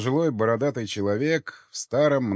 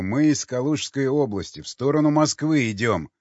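громче и выше, втолковывая; втолкуй непонятливому издалека; раздражённое повторение; 4 semitones higher, 4 dB louder than usual. Acted. Раздражённо повторяет объяснение стрелку. (с досадой, на повышенном тоне)

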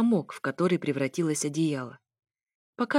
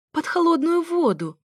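high-pitched, cutting in; urgent interruption; 10 semitones higher, 4 dB louder than usual. A narrator's reading. Alisa cuts off the narrator about her hurt foot, urgent interruption. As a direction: break in with a raised, urgent cry. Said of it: "перебила меня Алиса".

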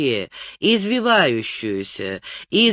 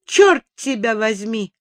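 angry outburst; 2 semitones higher, 3 dB louder than usual. Acted. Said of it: "вскипела она".

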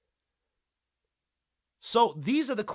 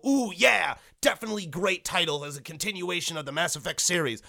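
hammed-up fan gushing over the sequel; mock excited fan. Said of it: "fans are gonna pick this up and go".

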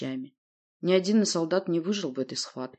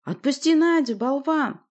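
loud, high, angry roar; furious raised command; growled order; 9 semitones higher, 5 dB louder, slower than usual. Acted. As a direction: roar at him to stop. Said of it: "прорычал Урий".

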